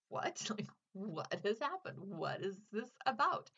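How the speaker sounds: incredulous questions with rising ends; baffled. Retold or imitated. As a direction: act out total bewilderment at a book. Baffled on reading chapter two.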